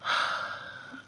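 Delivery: imitated annoyed sigh; put-upon exhale, acted; bothered sigh. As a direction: sigh as if someone is bothering you. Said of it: "like if I'm bothering her".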